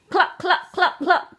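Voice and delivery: plain-voiced clucking; just cluck the sound out; chicken cluck. Shown as a demonstration. Mother showing kids the chicken sound, plain clucking. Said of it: "What sound does a chicken make?".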